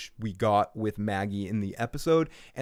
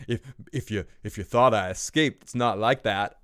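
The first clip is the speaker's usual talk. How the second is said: Negan; 3 semitones lower than usual. Acted. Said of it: "accent I'm giving Negan here".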